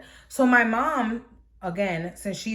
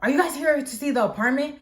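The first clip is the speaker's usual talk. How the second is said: rough man's voice; 7 semitones higher, 4 dB louder than usual. Retold or imitated. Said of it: "turns around mad rough".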